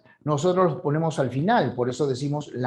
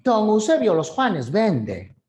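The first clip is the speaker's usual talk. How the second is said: Peruvian jungle speech; 5 semitones higher than usual. Retold or imitated. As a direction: voice a jungle speaker, lilting and up. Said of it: "allí en la selva dirían algo así como".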